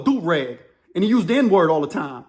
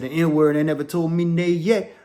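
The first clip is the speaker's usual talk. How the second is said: gangster boast; 4 semitones lower, slower than usual. Retold or imitated. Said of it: "He said".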